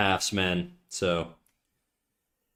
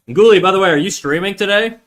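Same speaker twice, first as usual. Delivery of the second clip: loud, high call across the room; 7 semitones higher, 8 dB louder than usual. Real, not acted. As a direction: call out to someone far off. Calling out to Ghoulie.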